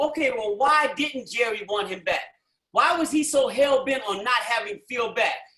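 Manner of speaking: ordinary talk, nothing marked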